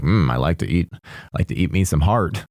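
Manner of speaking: lightly voiced hungry morgue guy, savoring it; mock hungry guy. Mocking the morgue guy's heart craving, lightly savoring. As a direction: purr over the heart like a treat. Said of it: "this guy is just like".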